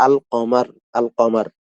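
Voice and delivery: "আল কমার" with the l of "আল" fully sounded; full lam in "আল". Shown as a demonstration. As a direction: keep "আল" separate and intact before "কমার". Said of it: "আল আলের মতো আছে".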